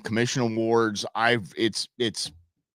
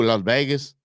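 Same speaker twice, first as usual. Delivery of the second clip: a touch of Spanish accent on the place name. Real, not acted. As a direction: say "Las Vegas" with a Spanish lilt. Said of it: "I say that with a Spanish accent".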